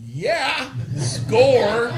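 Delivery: high, loud laughing Yeah, score; excited cheer. Retold or imitated. Man finding cash in the park, laughing cheer. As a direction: cheer like you found free cash. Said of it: "I'm like".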